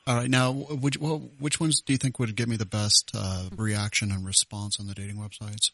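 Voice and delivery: lightly voiced woman named Regina, hesitant; a hint of a lonely lady asking shyly; female prank voice. Host in a light woman's voice calls the gun shop. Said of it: "acting like a female".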